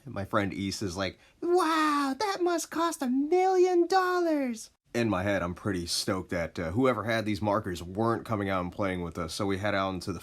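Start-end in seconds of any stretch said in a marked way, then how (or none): 1.4-4.7 high, loud, drawn-out wonder; awestruck kid. Retold or imitated. East marveling at the expensive marker, loud awestruck kid voice. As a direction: gush like an amazed little boy, way up high. Friend East awed by the gun.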